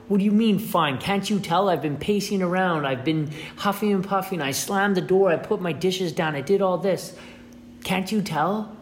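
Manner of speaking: imitating an upset partner demanding notice; mock angry wife. Wife confronting partner over ignored signals.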